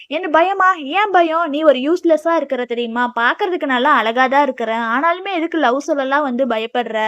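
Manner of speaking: lightly acted chiding of a timid friend; mock scolding. Heroine scolds hero for being afraid.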